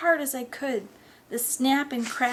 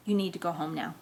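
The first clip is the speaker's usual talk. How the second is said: lower, restrained order; stern dismissal; 4 semitones lower, 4 dB quieter, faster than usual. Acted. Mother sending the friend home, quietly stern. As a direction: keep it low and controlled.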